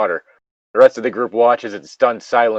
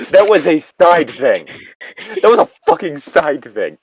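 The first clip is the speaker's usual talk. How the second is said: laughing insistence. Real, not acted. Player defending a milkshake, laughing. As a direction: laugh while making the point.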